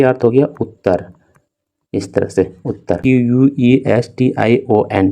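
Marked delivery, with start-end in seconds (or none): 3.0-5.1 slow spelling. Shown as a demonstration. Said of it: "तो इसको पढ़ना आपको".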